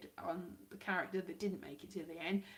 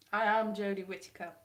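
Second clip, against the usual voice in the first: lightly played, louder introduction; mock Jodie Whittaker; 2 semitones lower, 5 dB louder than usual. Vlogger in a wig claiming to be the actress, mock announcement. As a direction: announce yourself firmly, lightly in character. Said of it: "I could be Jodie Whittaker".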